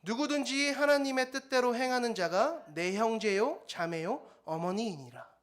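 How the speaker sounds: solemn public Bible recitation; scripture reading aloud. Real, not acted. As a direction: read the verse aloud with the congregation. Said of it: "큰 목소리로 함께 읽어보겠습니다".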